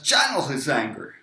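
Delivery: brief angry burst on channel; acted anger. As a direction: lean hard into the word channel, mock angry. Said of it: "So the angry guy".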